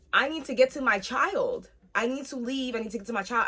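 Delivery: retold urgency. Urgent plea to her mom.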